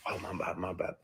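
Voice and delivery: soft, backing-off apology; quietly acted-out "sorry"; quick apology. Acted apology after the outburst.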